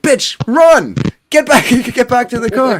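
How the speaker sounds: high-pitched frantic holler; urgent mock yell. Back-seat dude to woman outside, high mock yell. Panicked backseat passenger shouting to her.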